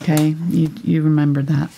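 words around a brush in the mouth; muffled, mouth full. Real, not acted. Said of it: "weren't you ever told not to talk when your mouth is full".

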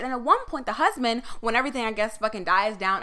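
normal talking voice

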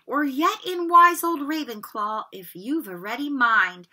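lightly voiced singing hat, recited with swing; a proud old hat showing off its rhyme; lightly performed hat reciting its song; Sorting Hat song.

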